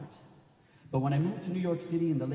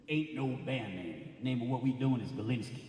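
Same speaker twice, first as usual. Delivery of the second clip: put-on Blast's Bronx accent; 3 dB quieter than usual. Bandmate naming the band to the poet, Bronx accent. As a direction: state it unhurried with a Bronx accent. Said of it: "his baritone Bronx accent".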